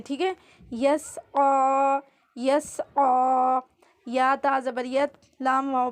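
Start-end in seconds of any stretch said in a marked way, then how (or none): 0.7-3.6 یسعا with a clear throaty ain before the "aa"; sounded ain. Shown as a demonstration. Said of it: "عین کی آواز نکالنی ہے". (یسعا میں عین کی آواز واضح)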